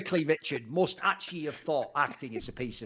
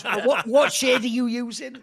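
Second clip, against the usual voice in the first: higher, louder, slow and laughing; mock innocent Heston; 7 semitones higher, 8 dB louder than usual. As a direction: ask it like a cheerfully clueless actor. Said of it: "And he goes".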